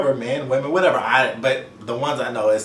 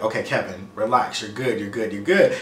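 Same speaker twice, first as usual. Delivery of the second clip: calming himself; 3 semitones lower than usual. Retold or imitated. Anxious client reassuring himself in waiting room, low and calming. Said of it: "trying to breathe and like".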